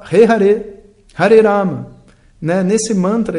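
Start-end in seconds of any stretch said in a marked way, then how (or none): 0.0-1.9 louder, higher invoking call. Shown as a demonstration. Teacher shows the mantra as a call for help, loud call. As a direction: call on Hare as a plea. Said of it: "Quando você fala".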